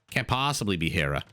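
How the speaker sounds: "possibly" with a light New York vowel, said casually; a hint of New Yorker on "can't possibly be Hera"; New Yorker accent. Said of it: "sounded like such a New Yorker there".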